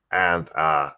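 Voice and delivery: lightly voiced cult leader; Molyneux impression. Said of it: "you're doing the voice right".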